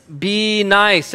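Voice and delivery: loud, emphatic proclamation; loud announcement. Shown as a demonstration. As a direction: announce it loudly to the whole crowd. Announces the point to everyone.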